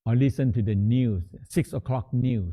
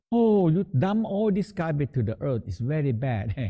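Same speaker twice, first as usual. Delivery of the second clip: higher-pitched imitation of objectors, settling at the end; mock objection; 4 semitones higher than usual. Teacher imitating people who object to dumping on earth, mock protest. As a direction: lightly mimic a scandalized complaint, ending near a laugh.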